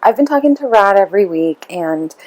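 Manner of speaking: lightly voiced Bible study teacher, gushing and apologetic; sweet apologetic teacher. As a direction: play the sugary teacher who hates to bother her. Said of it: "She says".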